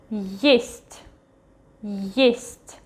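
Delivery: Есть opening with an audible y glide before the stressed vowel; initial Y glide. Shown as a demonstration. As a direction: say есть as yest, modelled for learners. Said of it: "There is still this Y at the beginning".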